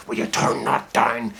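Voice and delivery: a mild hint of a father barely containing rage; subdued anger. Dad warning his son about the music, mild subdued anger. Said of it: "that subdued anger".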